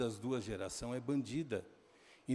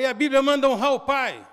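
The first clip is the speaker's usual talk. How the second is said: acted angry shout; 11 semitones higher, 14 dB louder than usual. Father retold arguing with son.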